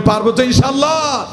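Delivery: loud rallying repeat. Shown as a demonstration. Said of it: "জোরে বলেন".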